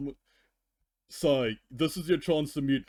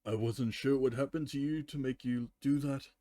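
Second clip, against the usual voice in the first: story reading with character voices; story narration; 2 semitones lower, 3 dB quieter than usual. Acted. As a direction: read the fanfic aloud with lowered, softer voices for Luna. Reads fanfic aloud with voices.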